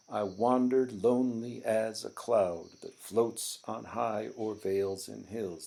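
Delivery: lines read with a steady da-DUM beat, "wandered" lifted; reading in meter. Shown as a demonstration. Teacher reads a poem line to show meter, beating it out. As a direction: tap out the iambic beat as you read. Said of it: "the meter".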